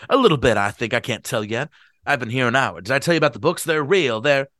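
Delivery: put-on booming eager drunk; owl-eyed drunk. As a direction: show off the books to the guests. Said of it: "give Gatsby a bad voice".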